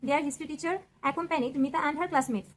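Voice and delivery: slow, word by word for copying; dictation pace. Shown as a demonstration. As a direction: read it out slowly so they can write. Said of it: "এখান থেকে লিখে নাও". (ধীরে ধীরে লেখানোর মতো করে পড়া)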